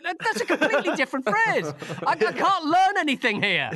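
high, loud, laughing protest; mock exasperation. Viewer retelling his reaction to mismatched subtitles, comically exasperated. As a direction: complain loudly in comic disbelief, pitch way up.

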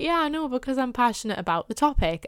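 high, loud defensive reply. Retold or imitated. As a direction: fire back, high and loud. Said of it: "And I'm like".

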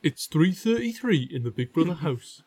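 lightly put-on Geordie accent; a touch of Geordie announcer; Geordie catchphrase. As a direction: say it like a Geordie reality-show narrator. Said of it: "what's the Geordie phrase?".

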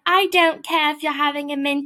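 imitating upbeat enthusiasm. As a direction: act out a guest gushing. Acting out guest's upbeat reaction.

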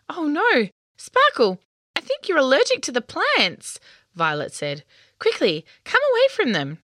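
worried. A narrator's reading. Allergy alarm, urging away.

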